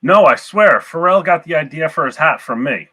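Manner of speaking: lightly Canadian, insistent opening; a hint of Canadian Mountie; Canadian accent. Player as a Mountie boasting about his hat, light Canadian accent. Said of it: "Good job on the Canadian accent".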